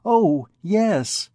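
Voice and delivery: sweet reply. A narrator's reading. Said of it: "a look full of infinite sweetness".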